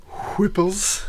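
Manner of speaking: Whipples called out high and drawn. Pretend. Streamer riffing on a name to viewers, high singsong call.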